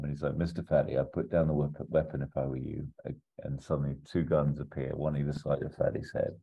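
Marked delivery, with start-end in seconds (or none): 0.4-2.9 calm, understated villain's warning. Acted. Villain warns the assassin to drop his weapon, very calm. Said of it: "Goodman is just very calm".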